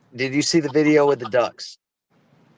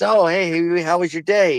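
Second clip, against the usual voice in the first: higher-pitched, lightly acted friendly greeting; lightly voiced bartender; 6 semitones higher than usual. Bartender greets duck in joke.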